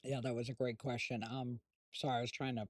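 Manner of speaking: talking while chewing; words round a bite of food; mouth full. Real, not acted. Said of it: "I'm not trying to talk with my mouth full".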